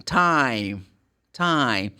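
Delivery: "time" with a gliding eye vowel; diphthong I. Shown as a demonstration. Teacher models the diphthong in time for learners. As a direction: glide from ah to ee in "time". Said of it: "This is a diphthong".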